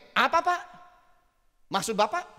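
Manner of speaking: brusque "Apa, Pak?" with a sharp rise; a touch of a sulky employee talking back; rude reply. Retold or imitated. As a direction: answer as if annoyed at being asked. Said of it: "Tapi dia keluarnya begini".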